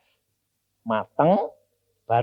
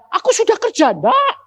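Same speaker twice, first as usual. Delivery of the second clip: put-on childlike crying; 5 dB louder than usual. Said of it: "saya nangis seperti anak kecil".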